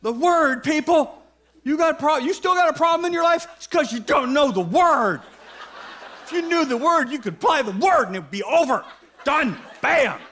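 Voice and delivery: a hint of exasperated lecturing; insistent Bible teacher. Preacher playing teachers who push the Word, mock insistence. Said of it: "the teachers are pointing our attention to the Word".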